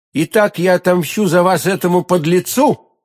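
high, martial vow of revenge; warlike declaration. A narrator's reading. D'Artagnan promising milady revenge, warlike declaration. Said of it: "с самым воинственным видом".

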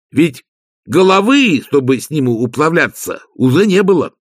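earnest servant recounting a grisly donation; Igor, eager servant. Acted.

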